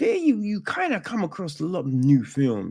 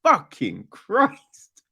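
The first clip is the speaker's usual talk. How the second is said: exasperated; 4 semitones higher than usual. Retold or imitated. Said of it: "he was just like".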